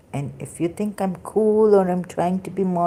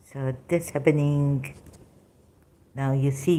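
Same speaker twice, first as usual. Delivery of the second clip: usual speaking voice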